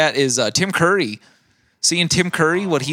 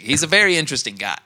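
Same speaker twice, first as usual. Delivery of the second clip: Willem Dafoe impression; faster than usual. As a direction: rattle it off like Dafoe. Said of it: "and he's like".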